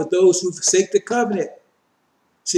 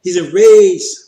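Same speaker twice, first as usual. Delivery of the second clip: forceful emphasis; 8 dB louder, slower than usual. Real, not acted. Preacher stressing the verse.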